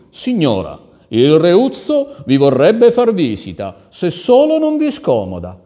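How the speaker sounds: loud, high ceremonious announcement; ambassador. Acted. Ambassador delivering a formal request. (ambasciatore cerimonioso, voce alta)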